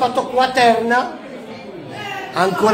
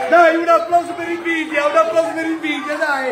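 bingo caller; 4 semitones higher than usual. Real, not acted. Announcing the winner.

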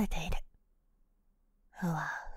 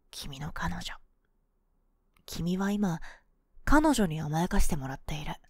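whisper. Acted. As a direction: whisper it sweetly. Whispered suggestion.

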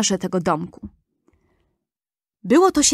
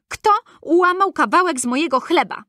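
third dwarf asking; 7 semitones higher than usual. A narrator's reading. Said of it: "A trzeci".

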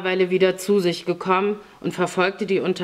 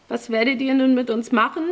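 higher, timid question; meek, subdued boy; 6 semitones higher than usual. A narrator's reading. Boy asks captors about his fate, meek voice. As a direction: ask fearfully, like a cowed child. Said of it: "fragte Mitja kleinlaut".

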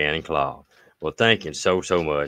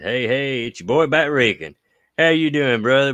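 excited greeting; 8 semitones higher, 3 dB louder than usual. Real, not acted. Reads viewer's greeting with gusto.

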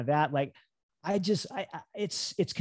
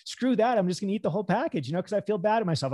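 defiant giving up; 5 semitones higher, faster than usual. Acted. Acts out giving up self-talk.

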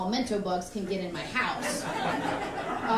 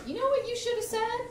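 much higher, sly mom voice; mom's teasing setup; 14 semitones higher than usual. Retold or imitated. Mom setting up her joke to her daughter, sly. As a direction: tease it like a mom with a secret.

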